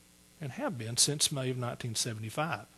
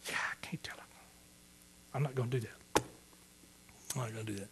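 hushed refusal; 4 semitones lower, 11 dB quieter, faster than usual. Real, not acted. Ashamed, won't retell the story.

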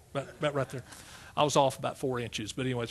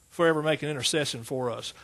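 ordinary talk

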